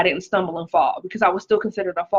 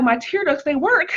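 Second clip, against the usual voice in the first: amused delight; 6 semitones higher than usual. Retold or imitated. Retold amused self-talk.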